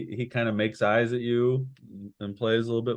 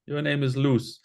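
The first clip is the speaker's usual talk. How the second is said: intimidated; 5 semitones higher than usual. Acted. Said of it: "he's intimidated".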